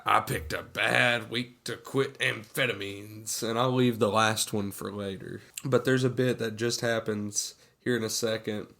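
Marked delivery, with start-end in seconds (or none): 0.0-3.4 deadpan movie quote. Retold or imitated. Retelling a character's running joke from the film, lightly put-on deadpan. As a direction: lean on "bad", like a running gag.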